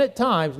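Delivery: "at times" set apart with emphasis; stress on "at times". Shown as a demonstration. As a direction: lean on both words, "at times". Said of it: "now I emphasize".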